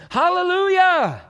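high, slow ringing shout of praise; full-voiced preacher's cry; shouted hallelujah. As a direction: lift it to the rafters. Preacher exclaims scripture praise.

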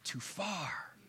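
slow, sly tempter lightly voiced; the devil's voice. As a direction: drag out the accusation like a whisper in the mind. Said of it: "He can bring thoughts into your mind to think".

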